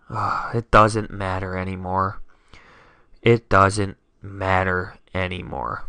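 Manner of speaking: low, soft and defeated; dejected resignation. Real, not acted. Fan after his quarterback's injury, dejected and resigned. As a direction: give up quietly, voice sinking low.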